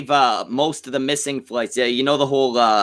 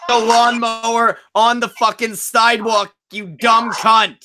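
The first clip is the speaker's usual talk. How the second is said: higher-pitched, exasperated rant; exasperated insult; 5 semitones higher than usual. Real, not acted. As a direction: berate someone for an idiotic move, dragging out the insult. Ranting at woman in played video.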